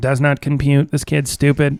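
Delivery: weird put-on robotic voice. Picturing a smart person talking to themselves: weird robot voice. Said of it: "in this weird robot voice".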